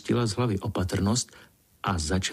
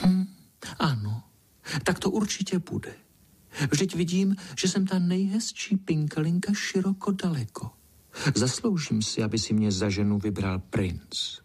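put-on higher, dreamy, self-admiring girl voice; vain little Pinkalinka; 3 semitones higher than usual. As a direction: daydream about being a princess. Pinkalinka daydreams aloud.

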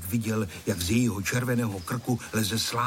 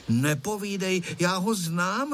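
put-on higher-pitched, sure-of-herself little girl; decisive; 7 semitones higher than usual. A narrator's reading. Girl correcting the boys about the kite, decisive. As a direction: say it firmly, brooking no argument. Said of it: "řekla rozhodným hlasem Tereska".

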